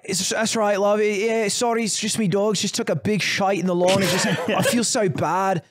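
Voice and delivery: light Scouse apology with a laugh; mock Scouse, sheepish; Scouse accent. Paddy telling the woman about his dog, light Scouse.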